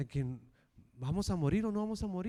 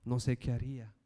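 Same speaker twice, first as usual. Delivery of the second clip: kneeling prayer; 4 semitones lower than usual. Shown as a demonstration. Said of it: "decirle de rodillas".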